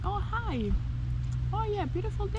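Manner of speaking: overly polite locals. Retold or imitated. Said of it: "everyone was just".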